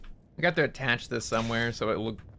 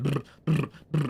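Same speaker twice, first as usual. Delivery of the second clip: lip trill. Retold or imitated. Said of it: "he was going".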